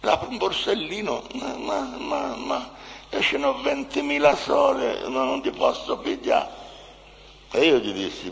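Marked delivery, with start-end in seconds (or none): 1.3-6.5 high, hesitant mimicked woman; thin-pursed shopper imitated way up high; woman short of money. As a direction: put on a high voice, stalling over the purchase.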